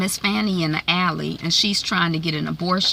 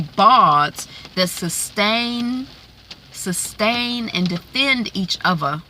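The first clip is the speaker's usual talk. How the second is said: attempted English accent; badly faked English accent, carefully sounded out; 2 semitones higher, slower than usual. Shown as a demonstration. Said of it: "That's my English accent".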